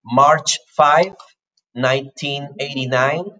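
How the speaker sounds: "March five" with the plain number five; cardinal date. Retold or imitated. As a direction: quote the learner's "five", rising at the end. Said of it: "you said, you said, like".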